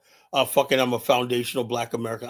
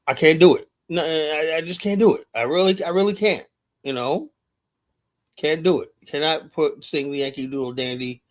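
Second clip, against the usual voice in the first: insistent; 3 semitones higher than usual. Real, not acted. Passionate refusal.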